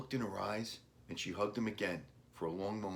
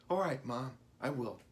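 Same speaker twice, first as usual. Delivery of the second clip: reluctant; 6 semitones higher than usual. A narrator's reading. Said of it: "Billy said reluctantly".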